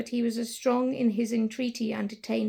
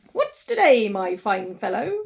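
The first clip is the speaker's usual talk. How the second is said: calling down; 7 dB louder than usual. Acted. Scrooge calling down to a boy in the street, loud call. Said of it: "calling downward to a boy".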